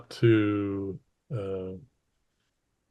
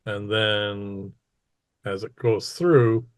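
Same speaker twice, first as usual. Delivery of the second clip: game master narration. Acted. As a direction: open strongly, then stretch out the suspense. Game master builds to a reveal.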